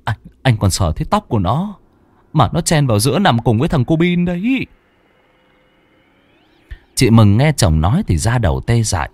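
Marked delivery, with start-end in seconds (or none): 0.0-4.7 fast, frightened husband stammering it out; a husband telling his wife he saw a ghost, breathless; panting fear. Acted. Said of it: "thở gấp gáp".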